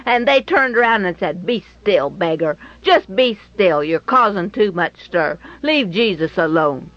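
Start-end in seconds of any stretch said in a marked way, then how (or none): 1.5-6.9 lower, irritated shushing; annoyed hush. Retold or imitated. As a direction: tell the beggar to hush, a touch annoyed. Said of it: "were annoyed by this beggar's commotion".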